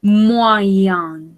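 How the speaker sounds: "moyen" said carefully as mwa-yan; a clear teacher's model of "moyen"; pronunciation demo. Shown as a demonstration. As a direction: model "moyen" so learners hear each sound. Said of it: "La prononciation, c'est".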